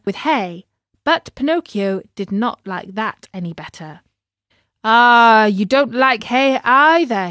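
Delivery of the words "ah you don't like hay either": loud, rising angry cry at the donkey; angry master yelling at the donkey. Acted. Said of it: "he cried angrily".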